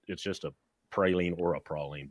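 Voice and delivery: "praline" said first as pray-leen then as prah-leen; two pronunciations of praline. Shown as a demonstration. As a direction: say "praline" one way, then "praline" the other way. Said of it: "as long as you say".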